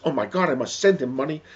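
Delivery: high, loud, alarmed mother; distraught. Acted. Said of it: "is distraught".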